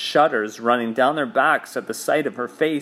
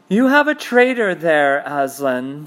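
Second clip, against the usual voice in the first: cold witch voice; 3 semitones higher, 4 dB louder than usual. Acted. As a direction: accuse him like a cold queen. Witch confronts Aslan.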